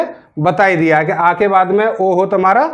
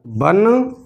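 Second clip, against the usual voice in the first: slow dictation; 5 semitones lower, 4 dB quieter, much slower than usual. Shown as a demonstration. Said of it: "teacher dictating split words".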